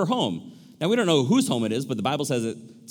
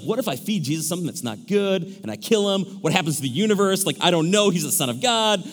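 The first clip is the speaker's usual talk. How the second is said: lightly panicked imitation of a worrier; hammed-up worry, mildly done; mock freaking out. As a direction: play at fretting, voice a touch raised. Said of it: "she's freaking out".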